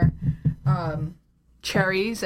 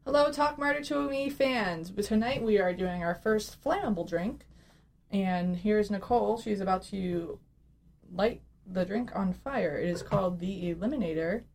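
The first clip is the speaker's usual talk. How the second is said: host intro; 6 dB quieter than usual. Acted.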